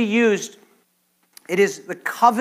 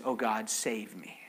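unvoiced desperate whisper to God; whispered cry; 8 semitones lower, 13 dB quieter than usual. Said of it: "David cried out".

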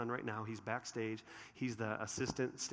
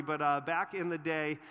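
ordinary talk

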